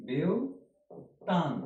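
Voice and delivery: "বিউটান" stretched very slowly, syllable by syllable; drawn-out naming. Shown as a demonstration. Teacher modelling the name for students, very slow. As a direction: draw "বিউটান" out long. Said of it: "বিউটান বলতে হবে".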